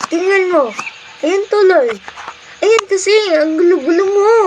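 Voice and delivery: whiny scolding. Pretend. Older sibling blaming baby for disrupted class, whiny scolding. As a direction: blame the little one, pitch climbing.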